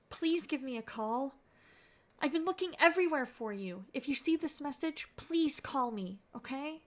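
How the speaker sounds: lightly acted anxious husband; worried voicemail. Husband calling his missing wife, a touch worried. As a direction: leave a fretful message for a missing wife.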